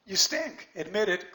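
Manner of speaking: you stink, snapped out high and loud; a sudden loud teasing jab at the students; blunt jab. Real, not acted.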